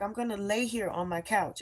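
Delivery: restrained retold yell. Telling God she won't move, restrained retold yell. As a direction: imitate yelling, holding the volume back. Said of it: "I'm just describing because I was yelling".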